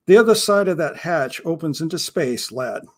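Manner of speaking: a hint of an old pirate explaining the grim routine; understated pirate, matter-of-fact about death; lightly voiced grim pirate.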